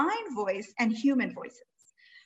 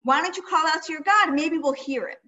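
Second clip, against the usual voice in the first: raised, louder mocking dare; taunting challenge; 4 semitones higher, 4 dB louder than usual. Eliyahu daring the Baal prophets to call, loud taunt. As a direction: call them out with a grin. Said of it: "Eliyahu is saying".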